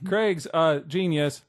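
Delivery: slow robotic monotone. Pretend. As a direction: deliver it like a robot. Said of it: "I talk like a robot in my cuts".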